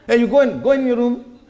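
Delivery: put-on a sharp call to the child to go to his room; shooing the child off. Parent sends the watching child away, calling out firmly. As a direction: raise the voice a little and send the kid out.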